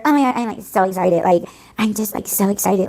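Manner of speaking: mildly mocking gush; mock excitement. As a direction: imitate over-excited crochet YouTubers. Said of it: "in the ways that I'm saying it".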